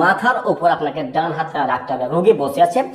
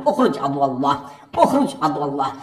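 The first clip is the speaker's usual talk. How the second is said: firm exorcism command; 4 semitones lower than usual. Shown as a demonstration. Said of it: "এভাবে মারবেন".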